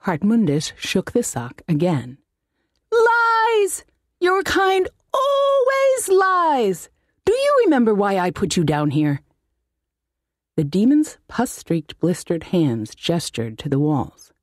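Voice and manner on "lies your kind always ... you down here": high, slow, outraged wizard cry; indignant wizard. Acted. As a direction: hurl the accusation like a petty tyrant. Wizard accuses demon of lying.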